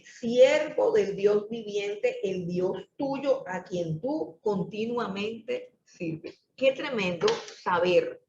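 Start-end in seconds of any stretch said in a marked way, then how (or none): 0.0-6.4 slow, deliberate quote; solemn emphasis. Shown as a demonstration. Preacher repeating the verse to his church, slow. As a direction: draw the phrase out for weight. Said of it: "Miren qué tremenda la frase".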